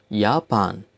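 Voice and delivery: "Japan" in German, as YAH-pahn; German-style "Japan", opening with 'yah'; German pronunciation. Shown as a demonstration. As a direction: say "Japan" with a y sound for the j. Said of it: "names of countries with German accent".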